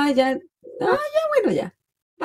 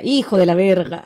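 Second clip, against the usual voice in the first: mild Mexican "hijo de la verga"; Mexican phrase quoted; 2 semitones lower, 4 dB louder than usual. Retold or imitated. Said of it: "un paciente que decía". (imitando levemente a un paciente mexicano)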